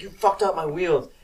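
high, contained mock yell; retold yell. Dad blaming his kid over the wheels, mock yell. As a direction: imitate an accusing dad without raising volume. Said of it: "And he yells at me".

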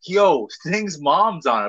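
drawn-out mock announcement to a buddy; acted breaking news. Host imitating guys spreading word of a mom online, drawn-out mock excitement. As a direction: stretch it out like passing on juicy gossip. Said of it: "I'd be like".

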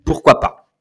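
pourquoi pas. whispered, breathy and unvoiced; whispered aside. Real, not acted. Throwaway aside before new topic.

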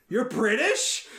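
high-pitched disbelieving question; astonished question. Retold or imitated. Talk show host reacting to actor's British accent, astonished. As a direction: imitate someone caught completely off guard.

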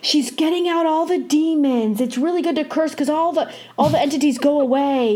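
a hint of a kindly, insistent old grandma; grandma's voice. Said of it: "And my grandma would say".

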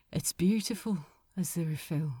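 soft, low, tender compliment; quietly touched. A narrator's reading. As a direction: say it gently with a sad smile. Sad smile, tender compliment to Aziraphale.

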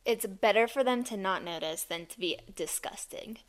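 hushed conspiratorial whisper. Real, not acted. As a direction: say it under your breath. Conspiratorial aside.

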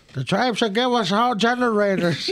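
put-on loud, high-pitched parody of a Native American public-speaking accent; mock Native American accent. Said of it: "Why the fuck are we doing this accent".

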